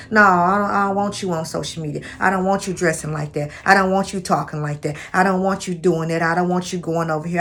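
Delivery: imitating a jealous man, fast and pushy; mock possessive husband laying down the rules; insecure controlling man. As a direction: rattle off the bans like a possessive boyfriend. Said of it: "'Cause some men are insecure".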